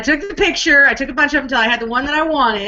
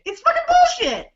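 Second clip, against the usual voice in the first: laughing outrage; 13 semitones higher than usual. Real, not acted. Mock outrage over wife's prize.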